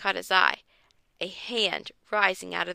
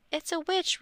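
laughing yell; 8 semitones higher than usual. Acted. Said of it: "Ruth Rose yelled, laughing at the same time".

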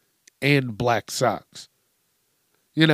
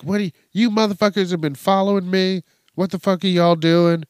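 quick, higher retold yell at the drivers; mock yelling woman; 5 semitones higher, 3 dB louder, faster than usual. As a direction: fire it off fast like the angry driver. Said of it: "starts yelling at 'em".

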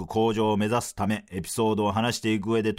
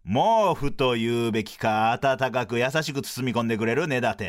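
sports commentary style. Pretend. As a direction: announce him like a star athlete. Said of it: "スポーツの実況風にフリートークせよ".

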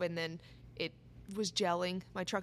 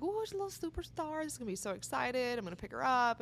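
mock excited; 3 semitones higher, 5 dB quieter than usual. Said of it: "I'm super excited 'cause I'm like".

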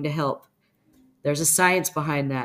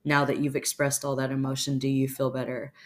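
very calm; 2 semitones lower than usual. Acted. Answering someone who just yelled in your face, very calm. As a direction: ask it composedly, unruffled by the outburst. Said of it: "stare at them very calmly and say".

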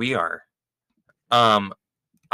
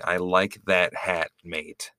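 Australian accent demo; 4 semitones lower, 4 dB quieter, slower than usual. Shown as a demonstration. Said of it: "the key to an Australian accent is saying".

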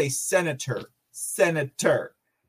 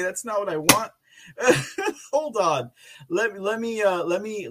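normal talking voice

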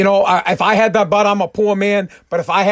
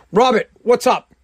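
lightly acted, higher-pitched phone answer; acted phone greeting; 4 semitones higher than usual. China picks up Robert's call, lightly acted greeting. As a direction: pick up and greet an old pal.

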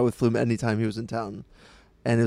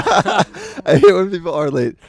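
laughing; 8 semitones higher, 8 dB louder, slower than usual. Real, not acted.

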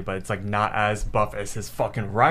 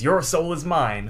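menacing Death voice; 4 semitones higher than usual. Acted. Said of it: "Death says".

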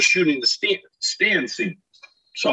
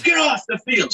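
angry groundskeeper; 10 semitones higher than usual. Retold or imitated. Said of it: "we're like".

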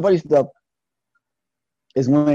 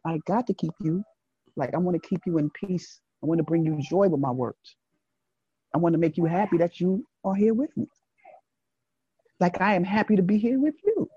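manly tender talk; 3 semitones higher, 5 dB quieter than usual. Retold or imitated. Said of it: "this is your manly side".

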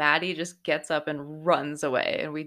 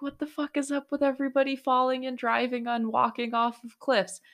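mock exasperation; 7 semitones higher than usual. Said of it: "I'm like".

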